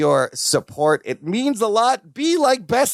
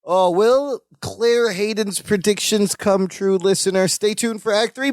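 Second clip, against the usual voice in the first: announcer teaser; 3 semitones higher than usual. Pretend. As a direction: tease the next act like a serial announcer. Cliffhanger teaser to listener.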